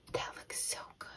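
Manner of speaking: very soft, whispered admiration; awed whisper. Pretend. Teacher admiring a piece of cake, awed whisper.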